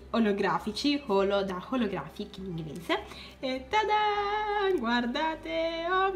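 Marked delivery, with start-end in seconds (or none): 3.4-6.1 high, drawn-out ta-da; sing-song reveal. Real, not acted. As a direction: present it like a magic trick. Reveal of the product. (rivelazione cantilenata, acuta)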